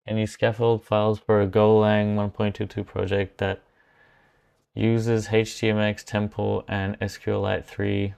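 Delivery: hoarse, worn-out voice; losing voice. Real, not acted. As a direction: voice giving out, tired and hoarse. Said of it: "I'm losing my voice".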